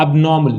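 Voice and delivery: एबनॉर्मल as ab-NAW-mul, r silent; correct pronunciation. Shown as a demonstration. Teacher introducing the fourth word, correct pronunciation. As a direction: drop the r in एबनॉर्मल. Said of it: "ये जो word है इसको हम".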